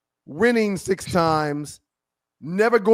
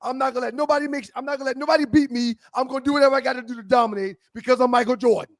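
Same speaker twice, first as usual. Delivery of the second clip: Jordan's bravado; 5 semitones higher, faster than usual. Retold or imitated. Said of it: "Jordan's like".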